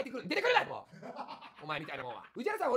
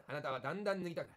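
softer mock hypnotist, あなたはだんだん脱ぎたくなる low and hushed; hypnotist murmur; 8 semitones lower, 6 dB quieter than usual. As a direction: lull them under like a stage hypnotist. (小声の催眠術師風)

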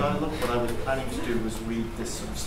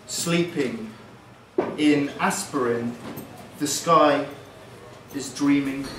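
slow, spaced-out poem, long pauses between phrases; poem reading; much slower than usual. Acted. Poet reads a short opening poem to the audience, slow poetry reading. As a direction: recite it a few words at a time.

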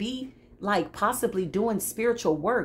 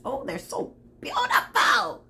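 high, drawn-out gush of feeling; moved to tears; 10 semitones higher than usual. Real, not acted. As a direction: gush slowly as if tearing up. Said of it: "About to cry".

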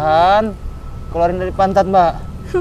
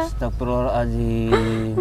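shocked lament; 10 semitones lower, 5 dB quieter, slower than usual. Acted. Stranger shocked by her story.

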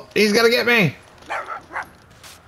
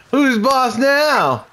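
taunting; 2 semitones higher, much slower than usual. Real, not acted. Taunting beaten enemy.

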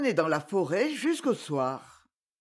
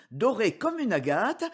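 plain reading voice

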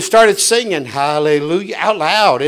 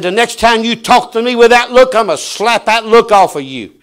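stern threat; 3 semitones higher, 4 dB louder than usual. Retold or imitated. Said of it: "He said".

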